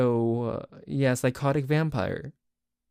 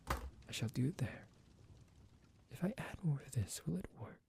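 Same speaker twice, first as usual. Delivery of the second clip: psychotic vampire; 2 semitones lower than usual. Acted. Psychotic vampire roleplay audio.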